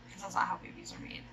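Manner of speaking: quick whispered aside. Real, not acted. Snide aside joke.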